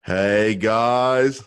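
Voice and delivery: put-on Australian accent, the guys stretched up and called out; cheery Australian woman greeting the hosts, Australian accent; female Australian impression. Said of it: "let me do a female Australian impression".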